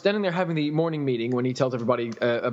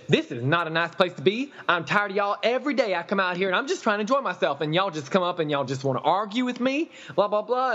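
mock customer whine; 5 semitones higher than usual. Mimics the customer complaining.

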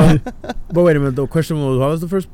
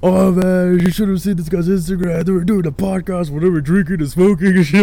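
higher-pitched excited gossip; retold excitement; 6 semitones higher, 3 dB louder than usual. Guest quoting a friend about the podcast Instagram, retold excitement. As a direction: imitate an impressed friend spreading news.

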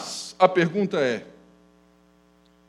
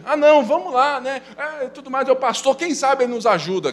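mock churchy couple; 6 semitones higher, faster than usual. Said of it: "um ritual de igreja".

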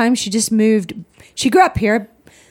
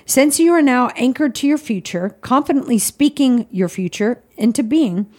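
reading aloud. Acted. Reads devotional aloud.

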